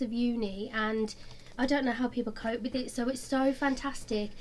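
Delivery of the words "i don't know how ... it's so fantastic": hoarse, losing voice; a strained, fading voice. Real, not acted. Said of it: "I'm losing my voice".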